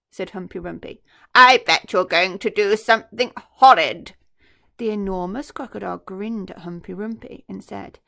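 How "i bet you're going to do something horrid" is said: worried hippo. Acted. Hippo worrying about crocodile.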